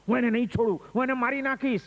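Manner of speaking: grind out the revenge vow; angry threat. Acted. Bandit repeating his threat to the monk, angry. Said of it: "ગુસ્સામાં આવીને બોલવા માંડ્યો ખૂબ".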